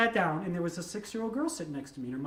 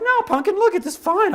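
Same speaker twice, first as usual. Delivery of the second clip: put-on reassuring the kid; 12 semitones higher, 11 dB louder than usual. Reassuring the worried girl.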